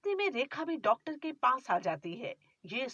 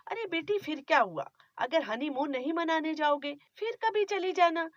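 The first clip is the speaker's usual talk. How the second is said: higher, soothing mother's voice; bride's mother; 5 semitones higher than usual. Acted. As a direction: comfort your daughter lightly.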